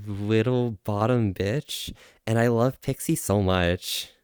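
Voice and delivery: lightly voiced streamer impression; a hint of a put-on fox persona; Keat Fox.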